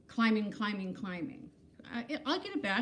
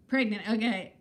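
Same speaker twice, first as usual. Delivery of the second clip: falling, accepting nod in voice; resigned acceptance; 4 dB louder than usual. Real, not acted. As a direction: concede it with a shrug. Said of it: "I look it".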